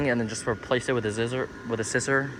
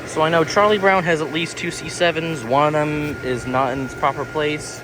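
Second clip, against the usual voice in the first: raised voice; 4 semitones higher, 4 dB louder than usual. Real, not acted. Talking over the running fan.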